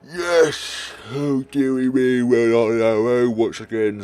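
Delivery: high, loud drawn-out cry; hammed-up wail over being left alone; mock dramatic exclamation. Player exclaims after party leaves.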